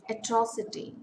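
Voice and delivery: Atrocity with TRO stressed; stress on second syllable. Shown as a demonstration. Teacher showing a four-syllable word, second syllable stressed. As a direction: hit TRO in Atrocity, ease off after. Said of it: "Stress falls on the second syllable".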